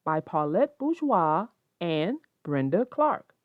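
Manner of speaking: put-on gentle read-aloud to children; story reading. A narrator's reading. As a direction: read calmly to kids. Reads picture book.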